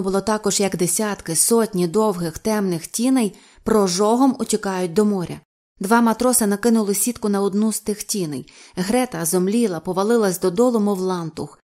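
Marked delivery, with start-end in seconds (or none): none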